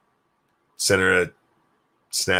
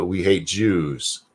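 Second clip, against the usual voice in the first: mock German; 3 dB quieter, much slower than usual. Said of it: "And German, I can say".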